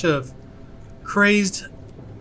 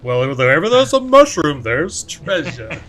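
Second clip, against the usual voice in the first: Cornelius voice; 5 dB louder than usual. Retold or imitated. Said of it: "I can see Cornelius".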